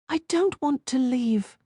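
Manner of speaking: tearful woman refusing to leave; thick tearful. A narrator's reading. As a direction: force it through a tight throat. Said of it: "she said thickly".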